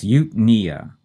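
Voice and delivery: "eupnea" with the weight on NEA; stress on second syllable. Shown as a demonstration. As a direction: say "eupnea" as yoop-NEE-uh. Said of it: "We put the stress on the second syllable".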